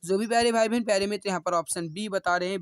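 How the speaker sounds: ordinary talk, nothing marked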